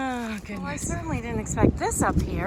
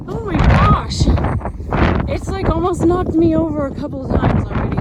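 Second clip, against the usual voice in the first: shouting over wind; 4 semitones higher, 6 dB louder than usual. Real, not acted. Strong wind gusting on a summit.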